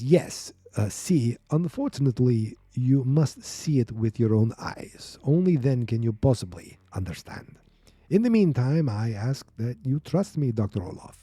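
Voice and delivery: lightly hammed Russian accent; bad Russian accent. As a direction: play a doctor with a fake Russian accent. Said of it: "I'm gonna do some bad Russian accent".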